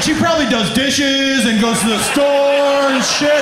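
a hint of a giddy kid; naive young guy. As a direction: play your clueless younger self.

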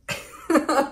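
a short embarrassed laugh; nervous laugh. Real, not acted. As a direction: laugh it off, a little flustered. Laughs at her own painting mistake.

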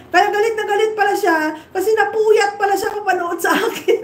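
high, laughing taunt; mocking laugh. Real, not acted. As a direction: laugh at her as you say it.

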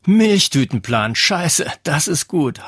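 delighted schoolboy outburst; bursting out laughing. A narrator's reading. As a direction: blurt it through a burst of laughter. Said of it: "prustete er los".

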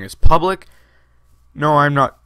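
talking through hiccups; speech broken by hiccups. Real, not acted. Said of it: "God, I'm hiccup-, hiccuping".

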